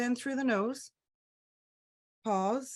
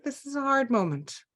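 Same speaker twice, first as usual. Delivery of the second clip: higher, gentle self-soothing voice; a kind voice easing a hard moment; kinder inner voice; 6 semitones higher than usual. Pretend. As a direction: say it to yourself with kindness. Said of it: "the kinder voice that says".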